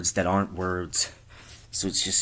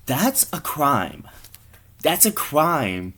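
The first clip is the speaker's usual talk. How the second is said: shocked objection; 5 semitones higher, slower than usual. Acted. Acted friend's shocked objection.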